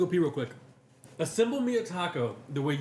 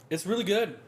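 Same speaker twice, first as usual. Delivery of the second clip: unconvinced; 4 semitones higher than usual. Real, not acted. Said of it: "why do you say it like it's not?".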